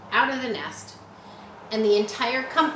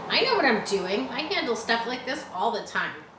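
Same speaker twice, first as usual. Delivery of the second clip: snarl; 3 semitones higher than usual. Acted. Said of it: "snarled Templeton".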